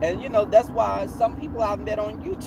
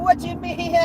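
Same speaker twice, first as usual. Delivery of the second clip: high, louder imitation of people laughing; mock their laughing comeback, pitched way up; retold laughing reply; 11 semitones higher, 5 dB louder than usual. Group laughs at being called out, imitated laughing high and loud. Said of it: "And they started laughing".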